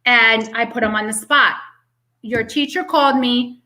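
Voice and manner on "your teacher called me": firm questioning, not attacking; retold firm parent questioning; strong and firm. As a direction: put him on the spot firmly. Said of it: "being strong and firm".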